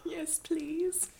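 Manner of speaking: breathy whisper through laughter. Real, not acted. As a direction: whisper it with a giggle. Whispered reply over tea.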